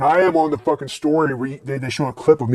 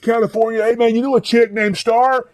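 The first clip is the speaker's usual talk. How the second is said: spaced-out punk; 9 semitones higher than usual. Retold or imitated. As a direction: play the burned-out California punk. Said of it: "He started talking".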